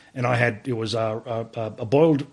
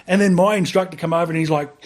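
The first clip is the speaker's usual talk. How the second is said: ordinary delivery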